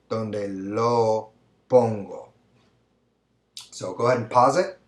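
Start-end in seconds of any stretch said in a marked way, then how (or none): 0.1-2.3 drawn-out last option; slow option. Shown as a demonstration. Teacher listing the final option slowly. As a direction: read the last choice slowly and trail down. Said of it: "we can say".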